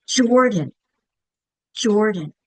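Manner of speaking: Jordan with emphasis on the first syllable; chin-drop emphasis. Shown as a demonstration. Teacher showing the chin bump, Jordan stressed at the front. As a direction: drop the jaw on the "Jor" of Jordan. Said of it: "That first syllable".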